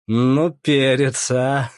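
loud, drawn-out amused exclamation; amused exclaim. Acted. Lyokha recalling an old buddy, loud and amused. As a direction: savour the memory, loud and slow.

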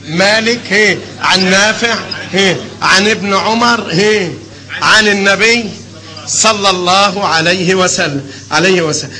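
slow, syllable by syllable chain of narrators; slow dictation. Shown as a demonstration. Teacher dictating the chain of narrators to students, slow and measured. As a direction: lay out each link of the chain slowly. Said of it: "teacher dictating chain of narration".

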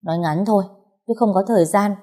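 curt and cross, rising at the end; mildly irritated, clipped-short request; irritable. Acted. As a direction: brush him off impatiently. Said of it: "Tôi cáu kỉnh".

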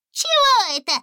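высокий скривлённый вопрос; с гримасой пискнуть; squeaky sneer. A narrator's reading. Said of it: "скривился человечек". (высокий кривляющийся голос)

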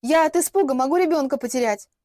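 mock-panicked pregnant plea; tearful plea. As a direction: lay the fear on thick. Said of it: "выпалила я".

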